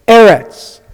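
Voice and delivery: Eretz as EH-rets, stressed on the first syllable; correct pronunciation. Shown as a demonstration. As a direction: say Eretz with the weight up front, EH-rets, falling away. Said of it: "It's not Eretz".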